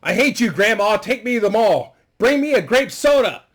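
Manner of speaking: high, loud whiny brat voice; shrill-free but loud high kid voice, pushy and rude; bratty grandson. Acted. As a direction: whine it like a spoiled kid making demands. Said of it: "he's a little asshole".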